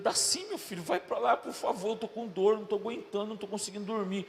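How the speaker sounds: pleading. Retold or imitated. Aching father begs son to move.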